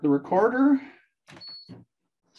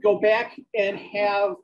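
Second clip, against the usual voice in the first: dictating text with spoken punctuation; measured dictation to a recorder, words spaced out. Acted. Dictates novel aloud on treadmill.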